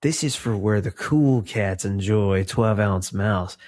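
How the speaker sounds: lightly voiced cool cat beatnik. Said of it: "I don't know why I'm talking like a beatnik".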